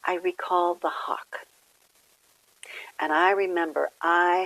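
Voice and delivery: measured affirmations with long pauses between phrases; devotional reading. Acted. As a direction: read an inspirational message aloud, clearly and deliberately. Reads the meditation message.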